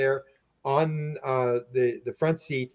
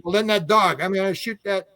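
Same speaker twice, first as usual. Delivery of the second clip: higher mock threat; retold angry threat; 6 semitones higher than usual. Owner threatening the dog with rifle, mock-angry threat. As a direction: imitate a swearing, worked-up man. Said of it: "he's swearing away".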